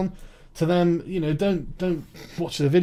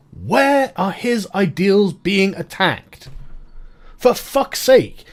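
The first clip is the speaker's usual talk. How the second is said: exasperated rant; 3 dB louder, much slower than usual. Real, not acted. Ranting at critics.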